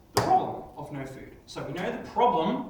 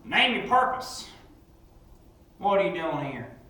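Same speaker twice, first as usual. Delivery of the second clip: stern challenge; 2 semitones higher, 5 dB louder than usual. Acted. Cowboy challenges the creature.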